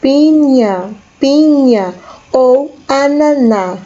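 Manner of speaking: pinha said slowly, ñ like nh; Spanish piña. Shown as a demonstration. Teacher giving both Spanish words for pineapple. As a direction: model pinha ou ananá slowly and clearly. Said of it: "duas formas de se falar".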